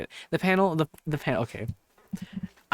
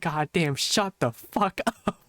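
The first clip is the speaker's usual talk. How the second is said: slowed, laughing mock exasperation; exasperated retort. Fed-up attendee silently telling the speaker off, exasperated. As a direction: drag it out, fed up but amused.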